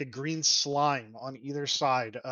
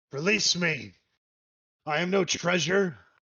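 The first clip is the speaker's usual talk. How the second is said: gruff, angry, raised creature voice; 5 semitones higher, 5 dB louder than usual. The creature answers back the flattery, quite angrily in a gruff voice. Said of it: "It answers back quite angrily in a gruff voice".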